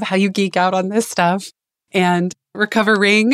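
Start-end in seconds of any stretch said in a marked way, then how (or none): 1.9-3.3 "recovering" with the ending stressed; stress on ing. Shown as a demonstration. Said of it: "emphasis on the ing".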